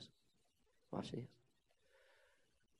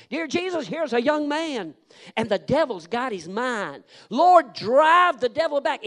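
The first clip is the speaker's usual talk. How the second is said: fervent loud prayer; 12 semitones higher, 13 dB louder than usual. Retold or imitated. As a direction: pray over him with force. Preacher praying over the youth.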